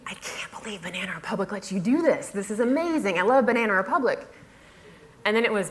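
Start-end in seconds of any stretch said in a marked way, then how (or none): 0.0-2.3 mock gushing amazement, lifting at the end. Blogger imitating readers thrilled by her sponsored post, gushing. 2.3-4.3 mock gushing, higher and swooping. Blogger imitating fans of the sponsor, gushing. Gushing quoted reader reaction.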